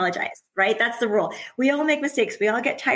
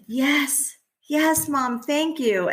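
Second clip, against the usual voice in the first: a lightly voiced child, higher and eager; grateful child; 7 semitones higher, much slower than usual. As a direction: play the kid saying yes to the hug. Child voiced in parent's story.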